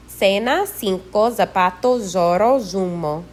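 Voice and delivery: Cena, cinco, zapato, zorro, zumo begun with S; Latin American S. Shown as a demonstration. Teacher modelling C and Z words, Latin American S sound. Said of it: "pronounced in Latin America like S".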